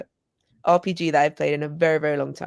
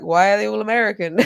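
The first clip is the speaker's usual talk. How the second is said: laughing; 3 semitones higher, 3 dB louder, faster than usual. Retold or imitated. Quoting Chris while laughing.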